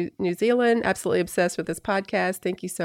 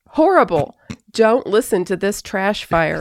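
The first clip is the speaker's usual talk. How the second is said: reading review aloud. Retold or imitated. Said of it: "and it says".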